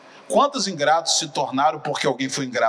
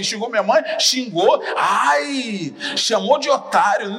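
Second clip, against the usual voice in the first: put-on higher, louder taunting kid; mock schoolyard taunt; 7 semitones higher, 4 dB louder, slower than usual. Preacher voicing kids egging on a fight, higher and louder taunt. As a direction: needle him into fighting. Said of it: "o outro falava assim".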